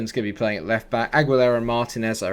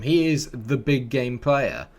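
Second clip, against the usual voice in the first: normal talking voice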